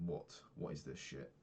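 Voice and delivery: normal talking voice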